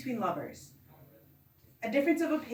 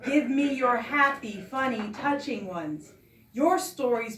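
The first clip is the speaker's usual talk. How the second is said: poetry recital; 2 semitones higher than usual. Acted. Poet addresses a storyteller relative, poetry recital. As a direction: recite it phrase by phrase.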